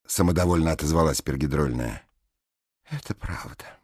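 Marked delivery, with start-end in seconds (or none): 2.9-3.8 soft and gentle; pleasant voice. A narrator's reading. Alice answering the blonde, soft and pleasant. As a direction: say it kindly and quietly. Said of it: "своим приятным голосом".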